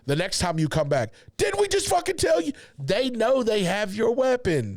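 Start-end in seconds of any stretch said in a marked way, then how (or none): 1.4-2.5 high-pitched angry yell; drill sergeant. Retold or imitated. Drill sergeant yelling at private.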